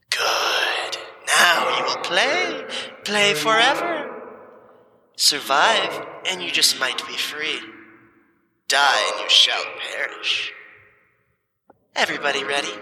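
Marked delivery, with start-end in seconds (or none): 0.1-10.5 slow, high booming god voice. Acted. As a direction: boom down from the sky. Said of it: "you hear a booming voice come from overhead".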